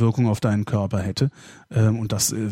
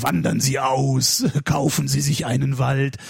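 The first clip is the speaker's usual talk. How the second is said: doomsday prophet; slower than usual. Retold or imitated. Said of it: "So, diese Typen".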